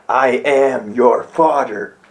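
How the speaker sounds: low, slow Vader line; Darth Vader. Retold or imitated. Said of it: "you know how he says".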